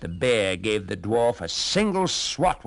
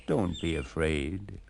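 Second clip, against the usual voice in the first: calling after; 2 semitones higher, 4 dB louder, slower than usual. Acted. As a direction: call out to the fleeing girls, then soothe them. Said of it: "the bear called after them".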